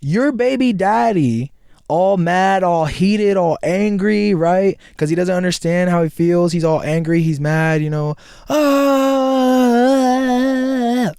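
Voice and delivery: loud, high, fired-up rant; heated rant. Real, not acted. Calling Hulk your angry baby daddy, loud. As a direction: hype it up, voice climbing.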